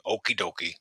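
a touch of a captain's impersonation; George Duke. Retold or imitated. Detective fobbing off a caller as his captain, lightly imitated. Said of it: "who imitates Duke to a T".

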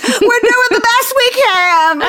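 very high, slow squeaky voice; tiny strained voice. Pretend. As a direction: give the straps a squeaky little plea. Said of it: "the poor little straps are just like".

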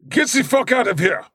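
high yelled dismissal; angry shout. Retold or imitated. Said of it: "And they're like".

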